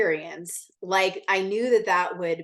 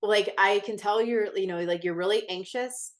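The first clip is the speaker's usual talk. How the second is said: kind nurse. Retold or imitated. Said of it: "She was, like, so kind".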